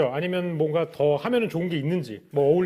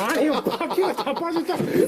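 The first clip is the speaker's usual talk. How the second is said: laughing exasperation; 8 semitones higher, 3 dB louder, slower than usual. Real, not acted. Wheel falls off again.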